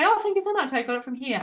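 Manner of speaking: lightly imitated pleased reply with a high Oh; flattered stranger. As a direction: play the delighted stranger thanking you. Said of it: "they're probably gonna go back and say".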